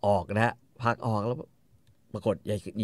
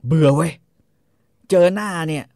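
fed-up husband; 7 semitones higher, 6 dB louder than usual. Retold or imitated. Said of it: "คาร์โลแม่งก็เลยแบบว่า".

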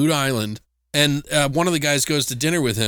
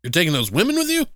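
louder, higher scolding warning; warning old man; 5 semitones higher, 3 dB louder, faster than usual. Retold or imitated. Gas station guy warning the students, loud scolding. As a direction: scold them for their folly. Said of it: "He's like".

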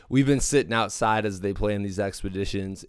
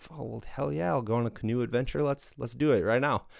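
higher, eager hell yeah, words tumbling out fast; eager yes; 4 semitones higher, faster than usual. Pretend. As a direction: jump at the offer, playfully over the top. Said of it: "I'd be like".

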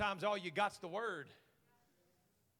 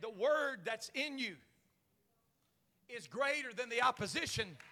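emphatic repeat; 3 semitones higher than usual. Shown as a demonstration. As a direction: restate it deliberately, phrase by phrase. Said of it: "I said".

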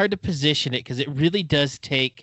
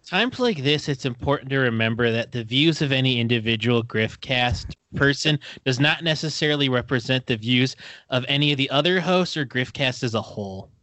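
formal disclaimer voice; disclaimer read. Acted. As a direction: read it like a legal notice.

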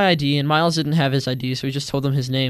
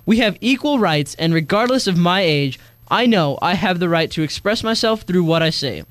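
raised, earnest statement over music; spoken-word declaration; 2 semitones higher than usual. Acted. Teen speaks out against adults who silence youth, earnest declaration. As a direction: declare your rights with conviction.

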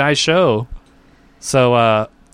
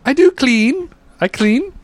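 higher, meek maid voice; timid hushed maid; 11 semitones higher, slower than usual. Retold or imitated. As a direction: play the shy new maid, eager. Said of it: "You sound like a maid that just came into the country".

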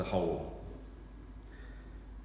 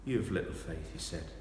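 soft rebuke; 5 dB quieter than usual. Acted. Jesus gently rebukes Peter.

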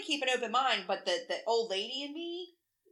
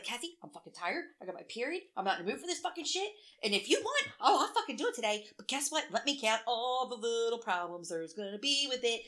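exasperated retold rant; 2 semitones higher than usual. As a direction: replay an irritated complaint.

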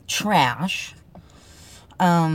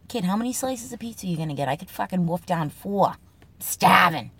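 put-on Boston accent; faster than usual. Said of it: "Boston Speak segment, Kid lines".

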